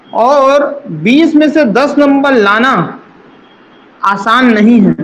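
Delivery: बीस stretched out slowly, word by word; slow down and weigh every word; a teacher drilling the pass mark home, slowly; slow emphasis. Shown as a demonstration. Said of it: "मैं फिर से बता रहा हूँ".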